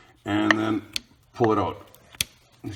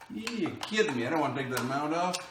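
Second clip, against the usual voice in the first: high, incredulous "you kidding me"; can't believe it; exasperated disbelief; 6 semitones higher than usual. Real, not acted. Sees a mount he must remove.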